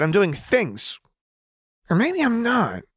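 put-on very high, giddy unhinged girl voice; manic Jinx. A narrator's reading. Jinx toying with Vi, manic and high. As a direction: play her unstable and playful.

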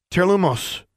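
sharp, high incantation; spell cast. A narrator's reading. Alexandra casts blinding light at an unseen figure, high spell cry. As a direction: call out the spell, pitched well up.

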